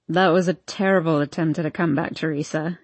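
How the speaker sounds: joking. Acted. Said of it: "he jokes".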